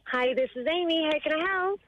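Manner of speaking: put-on posh, formal phone greeting. Amy answering a call as if at work, posh phone voice. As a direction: answer like a polite professional, lilting upward. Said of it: "answer with the posh phone voice".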